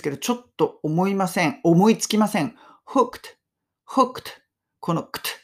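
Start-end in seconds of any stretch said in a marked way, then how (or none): 2.9-4.2 "Hooked" with a tight, clipped-off KT ending; careful English ending. Shown as a demonstration. Teacher showing learners a tricky ending, careful English pronunciation of "hooked". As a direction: end "hooked" on a crisp k-t, no added vowel. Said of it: "っていう発音がやっぱり難しいですね".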